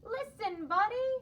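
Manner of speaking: high, loud yell of his name. Acted. Parents yelling at distracted Buddy, high and loud. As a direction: call him sharply, loud. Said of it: "His parents tried yelling".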